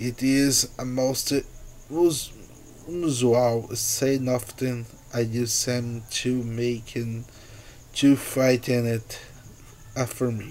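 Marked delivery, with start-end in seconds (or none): none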